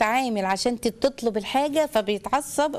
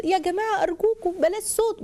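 gentle mother demo; 7 semitones higher than usual. Shown as a demonstration. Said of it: "اللي انا هعمله لك دلوقتي بوشي". (أم تطلب بهدوء خفض الصوت)

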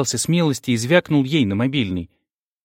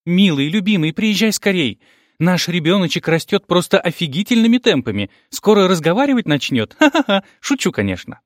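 put-on cooing girlfriend; 6 semitones higher than usual. A narrator's reading. Vera cooing on phone.

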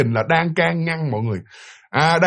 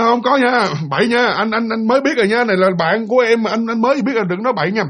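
higher-pitched retold protest of innocence; defensive denial; 4 semitones higher than usual. Fiancé denying it to his partner, defensive. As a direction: act out a flustered "not me" denial. Fiancé hurriedly denies the accusation.

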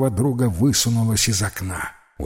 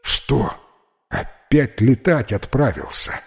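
surprised; 2 semitones higher than usual. Acted. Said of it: "изумился Василий".

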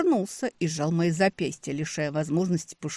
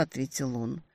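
plain reading voice

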